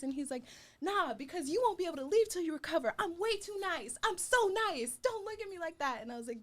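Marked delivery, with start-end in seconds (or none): 0.8-6.0 mock sweet voice. Chris insisting he's nice.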